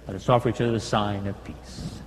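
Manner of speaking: ordinary talk, nothing marked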